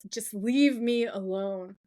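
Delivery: slow, drawn-out mock command; commanding power voice. Retelling Andy using his powers on Dean, commanding power voice. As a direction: lightly imitate a mind-control order, word by word. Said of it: "he uses the voice".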